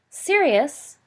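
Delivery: loud call across the tables. Acted. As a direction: call his name from a few tables away. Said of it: "called a voice".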